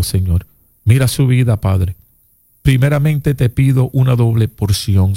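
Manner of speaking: earnest spoken prayer, repeating Señor; fervent prayer. Real, not acted. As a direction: pray over him with conviction. Pastor prays over caller on radio.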